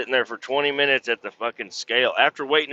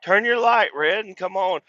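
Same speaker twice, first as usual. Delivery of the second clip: high, sing-out call to a coworker; retold coaxing; 11 semitones higher, 3 dB louder than usual. Driver inviting the scale operator out, high coaxing voice. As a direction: pitch it way up, retelling the invitation. Retells calling Marie out for break.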